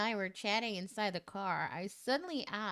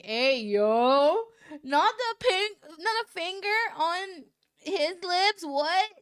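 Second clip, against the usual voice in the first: much higher and louder, giddy; squealing outburst; 8 semitones higher, 9 dB louder than usual. Real, not acted. Reader squeals at the finger on his lips. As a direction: squeal with disbelief.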